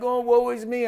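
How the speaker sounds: high, whiny woe-is-me; mock self-pity. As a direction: ham up a pitiful complaint. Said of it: "anytime they acted like".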